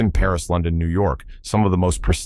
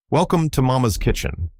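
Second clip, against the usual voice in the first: bright, smiling welcome pitched high; eager host beaming at important guests; big smile; 7 semitones higher than usual. A narrator's reading. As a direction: greet them with the biggest smile. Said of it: "Tony said with his biggest smile".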